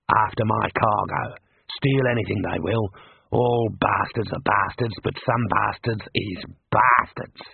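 put-on a touch of the gruff old trucker; Mad. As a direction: lay down grim roadside wisdom, slowly. Mad explains road gang.

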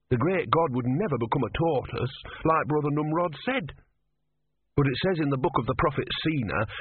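put-on worried, sincere young novice; earnest young novice. Brother's voice.

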